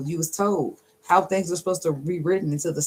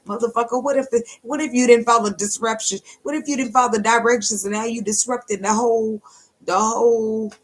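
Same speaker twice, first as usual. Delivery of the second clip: raised, indignant mock scolding; scolding ancestor; 6 semitones higher, 4 dB louder than usual. Angry ancestor berating a disobedient descendant, indignant. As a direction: scold in a higher, fired-up voice.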